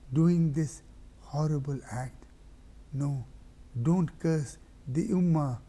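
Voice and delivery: urgent plea. Acted. Hussein urging his sisters not to curse. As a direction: press the command earnestly.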